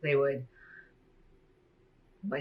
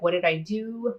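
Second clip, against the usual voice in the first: higher, pleading voice of a hurt dad; hurt father; 6 semitones higher, slower than usual. Retold or imitated. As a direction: plead like a father who can't understand his child. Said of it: "he was like".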